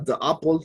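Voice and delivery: "the apple" with "the" said "da". Shown as a demonstration. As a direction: say "da apple", the ugly way. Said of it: "eso sí no lo pueden decir porque suena feo". ("the apple" con "the" como "da", la forma incorrecta)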